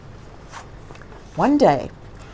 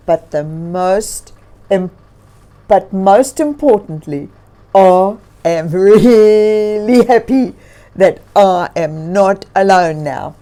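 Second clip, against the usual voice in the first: thankful bear talking to himself; grizzly bear voice; 9 dB louder than usual. Acted.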